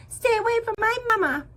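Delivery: high, loud cry of defiance; gosling diving in to defend his mother, crying out; protective gosling cry. Acted. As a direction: shout to shield your mama.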